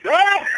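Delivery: loud, high exclamation of greeting; big mock yell of recognition; Roddy Piper. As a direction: imitate a wrestler's high, delighted yell. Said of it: "So then Roddy comes up to me".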